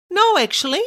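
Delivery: refusing the promotion bait, demanding. Retold or imitated. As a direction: demand he drop the tricks. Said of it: "said in a demanding voice".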